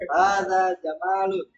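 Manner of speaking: Hadza jamalun with the mim said short; jamalun, short mim, repeated back; repeat after teacher. Shown as a demonstration.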